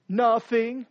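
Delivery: a mildly sulky, brushed-off nothing; a light pout on Nothing. Acted. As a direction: say nothing as if it's nothing. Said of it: "Or it's even worse".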